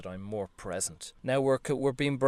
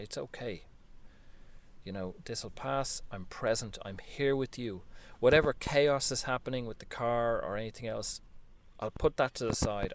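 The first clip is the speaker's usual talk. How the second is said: gentle, loving. Pretend. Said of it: "to be gentle and to be loving and to make peace".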